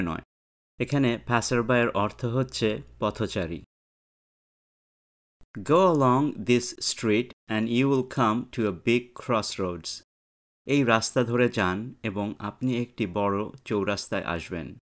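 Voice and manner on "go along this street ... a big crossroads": slow dialogue reading. Shown as a demonstration. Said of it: "teacher reads dialogue slowly".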